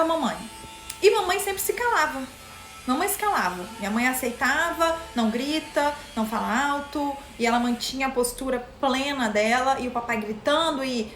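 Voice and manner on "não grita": usual speaking voice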